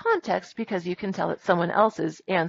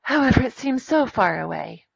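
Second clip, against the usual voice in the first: higher, lightly acted storybook voice; Little Mermaid; 5 semitones higher than usual. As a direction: lightly act the character's longing. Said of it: "sighed the Little Mermaid".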